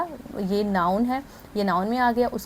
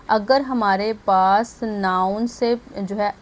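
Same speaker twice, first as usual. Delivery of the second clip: slow dictation; slower than usual. Shown as a demonstration. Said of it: "अपने पास कहीं note down कर लें".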